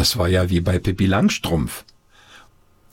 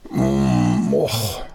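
grumpy groan; 6 semitones lower than usual. A narrator's reading. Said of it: "machte er".

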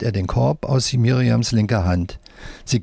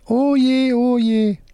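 squeaky dismayed puppet; 14 semitones higher, slower than usual. A narrator's reading. Left-hand puppet dismayed.

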